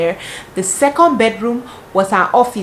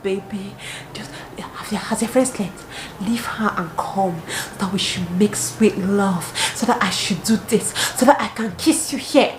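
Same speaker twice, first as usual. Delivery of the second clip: mock seductive reading. Reading his seductive text aloud.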